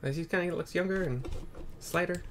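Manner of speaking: demoing a younger character's voice. Shown as a demonstration. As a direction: sound young and slight. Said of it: "He's more like this".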